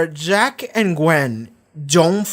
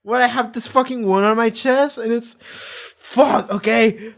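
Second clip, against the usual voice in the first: mock complaint; 10 semitones higher than usual. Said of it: "it's like".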